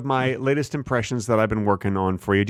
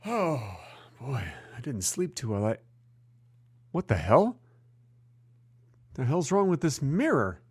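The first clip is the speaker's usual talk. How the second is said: barely changed, own voice as Carson; lazy Carson voice, hardly altered; Johnny Carson impression. Host doing Johnny Carson to his co-host, barely changed. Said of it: "This is Johnny Carson waking up".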